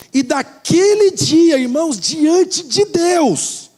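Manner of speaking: high, very slow, drawn-out proclamation; solemn pulpit emphasis; forceful preaching. Real, not acted. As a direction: declare it to the congregation, stretching each phrase. Preacher makes a solemn vow.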